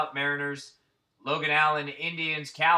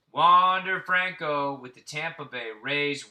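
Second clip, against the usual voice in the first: slow and louder, savoring Wander Franco; hyped card announcement; 6 dB louder, slower than usual. Real, not acted. Card collector hyping his best pull to viewers, slow and loud. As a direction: announce the big pull like a ring call.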